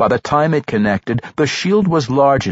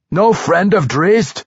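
firm declaration; 7 semitones higher, slower than usual. Acted. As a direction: declare it proudly. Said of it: "the dwarf declared".

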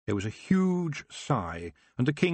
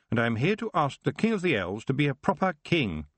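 put-on higher, bold young witch's challenge; proud, pitched-up challenge; defiant young witch; 7 semitones higher than usual. A narrator's reading. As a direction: face them down as a young witch. Young witch answers the king.

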